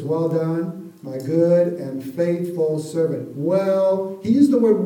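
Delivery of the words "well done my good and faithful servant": gentle praise. Retold or imitated. Preacher voicing God's praise to the faithful, slow and warm. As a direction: savour each word like heartfelt praise. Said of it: "hear that voice when he says".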